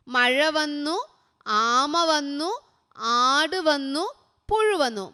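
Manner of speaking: each word drawn out slowly, for writing down; slow dictation. Shown as a demonstration. Teacher dictating to a child, slowly and clearly. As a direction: read it word by word so a child can write it. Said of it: "എഴുതാൻ ചോദിച്ചാൽ എഴുതാൻ".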